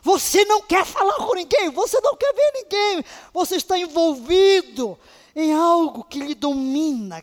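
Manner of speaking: high, loud preaching burst; impassioned preacher's cry; preaching peak. Acted. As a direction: drive the line up high and loud. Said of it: "preaching climax".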